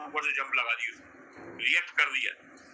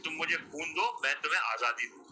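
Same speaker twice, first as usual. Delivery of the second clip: quoted slogan, firmly spoken; imitated leader's assured promise; confident rallying call. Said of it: "उन्होंने confidence के साथ इस बात को कही".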